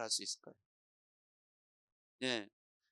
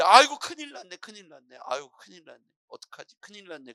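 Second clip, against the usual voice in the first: alarmed pastor; 9 dB louder than usual. Acted. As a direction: act out a contagious panic. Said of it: "겁이라는 게 내 안에 쑥 들어오는".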